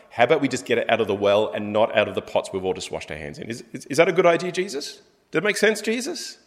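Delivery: quick, rising, disbelieving objection to Jesus; incredulous pushback. Pretend. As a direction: argue back, baffled, climbing on each Jesus. Guest pushing back at Jesus.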